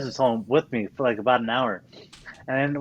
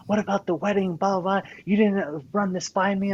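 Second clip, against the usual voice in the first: higher mock nagging; imitating wife complaining; 5 semitones higher, 3 dB louder than usual. Wife scolding about the wedding, mock higher complaint. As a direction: whine it up as the upset wife. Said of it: "She's like".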